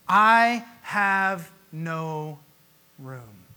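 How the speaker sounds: slow, drawn-out mock innkeeper; innkeeper's refusal. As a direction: stretch it out like a curt innkeeper. Innkeeper refusing Mary and Joseph.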